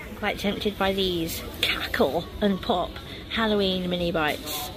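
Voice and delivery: hushed whisper in the aisle. Real, not acted. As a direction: whisper it so nobody hears. Whispered aside in shop.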